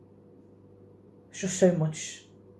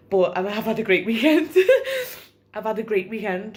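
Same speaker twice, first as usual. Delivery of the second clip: laughing; 2 semitones higher, 5 dB louder than usual. Real, not acted. Laughs about her great weekend.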